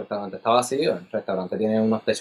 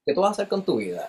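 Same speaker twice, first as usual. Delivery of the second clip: fast, high, laughing through it; laughing question; 8 semitones higher, much faster than usual. Retold or imitated. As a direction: ask it while laughing.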